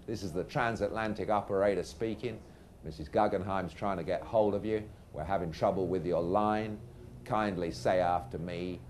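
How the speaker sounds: lightly put-on American telephone operator; American accent. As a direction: official operator patter with a hint of American. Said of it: "but in an American accent".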